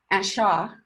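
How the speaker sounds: "Acha" said flat and clumsy, like a beginner; imitated mispronunciation. A classmate mangling French, "Acha" imitated clumsily. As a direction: mimic a learner's awkward "Acha". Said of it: "he would say".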